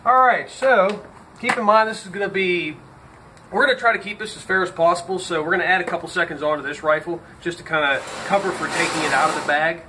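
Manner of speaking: talking with a dip in; words around a lip of snuff; lip full of dip. Real, not acted. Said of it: "Got a dip in my mouth".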